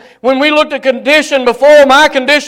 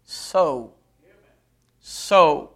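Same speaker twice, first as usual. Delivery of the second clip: low, softer, isolated "so"; simply said; 7 semitones lower, 6 dB quieter than usual. Shown as a demonstration. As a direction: drop down and let the word stand alone. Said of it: "as a believer simply saying".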